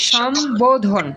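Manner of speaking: সম্বোধন with a clear b; correct pronunciation. Shown as a demonstration. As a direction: say সম্বোধন as shom, then bo-dhon. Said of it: "এই জায়গায় উচ্চারণটা করো".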